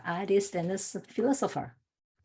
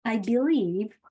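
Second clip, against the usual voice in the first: measured letter reading with deliberate pauses; reading aloud. Acted. Speaker reads a friend's letter to a listening conference audience, measured reading.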